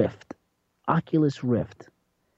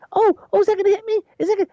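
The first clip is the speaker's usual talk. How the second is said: high granny voice in awe and mild fright; old grandmother voice; much faster than usual. Retold or imitated. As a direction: squeak it out like an amazed granny afraid to fall. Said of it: "she's like".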